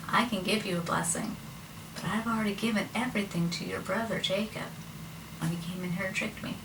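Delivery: gently acted regret; subdued reply. Isaac answers his weeping son.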